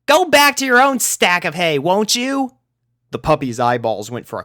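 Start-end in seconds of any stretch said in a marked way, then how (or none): 0.0-2.6 much higher, louder whiny plea; exasperated plea. A narrator's reading. Rainbow begging the pugs to leave her alone, exasperated. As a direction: push them away, pleading. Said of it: "groaned the blue Pegasus".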